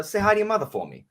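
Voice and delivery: high, quick celebrity impression; a rapper. Mimicking a celebrity's small talk for the host, high and quick. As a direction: toss it off fast in a high-pitched impression. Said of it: "a rapper im-, impression".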